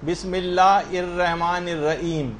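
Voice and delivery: slow بسم اللہ الرحمن الرحیم with the ح of الرحمن softened to ہ; mock the strange way people recite بسم اللہ الرحمن الرحیم; drawn-out, slightly mocking بسم اللہ الرحمن الرحیم; odd faulty recitation. Shown as a demonstration. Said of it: "یعنی عجیب سا لوگ اس کو پڑھتے ہیں".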